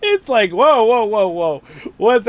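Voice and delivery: high, loud startled whoas; amazed by the glitch, loud and high. Real, not acted. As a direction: laugh out a shocked whoa.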